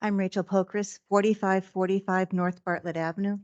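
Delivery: muffled, speaking through a mask; through a face mask. Real, not acted. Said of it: "Forgive the mask".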